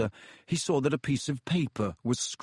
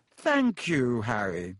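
gracious; slower than usual. Acted. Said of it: "said Lockhart graciously".

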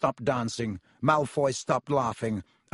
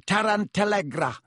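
spell shout; 7 semitones higher, 3 dB louder than usual. Acted. Spell cast mid-duel.

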